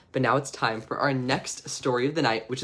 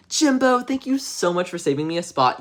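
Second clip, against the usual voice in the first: put-on sweet-talking kid; 4 semitones higher than usual. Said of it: "he's like".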